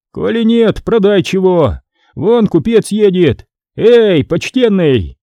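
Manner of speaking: impatient clerk calling out; bossy scribe. Acted. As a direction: order him, then call the merchant. Scribe orders, hails merchant.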